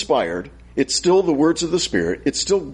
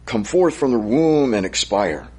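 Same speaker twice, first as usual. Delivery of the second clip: scripture reading; 3 semitones lower than usual. Acted. Preacher reading Job's lament to the congregation, solemn. Reading Job chapter three aloud.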